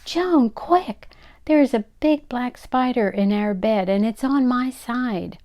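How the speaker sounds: high, loud panicked squeal. Acted. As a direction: squeal the alarm like a frightened mother. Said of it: "clutching her bathrobe and squealing".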